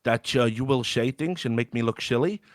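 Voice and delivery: dodgy Dutch-accented impression, s turning to sh; put-on Dutch accent; Lauder, mock Dutch accent. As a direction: mimic him with a botched Dutch accent. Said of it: "I don't know why he's Dutch".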